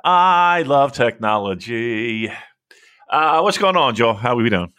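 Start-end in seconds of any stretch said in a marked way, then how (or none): 0.0-2.3 sarcastic. Real, not acted. Deadpan after an audio glitch.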